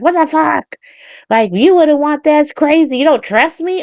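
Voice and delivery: high, wailing mock outrage; imitating her falling apart in disbelief; mock breakdown. Willow breaks down at Michael's terms, mock distraught wail. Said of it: "She, like, breaks down".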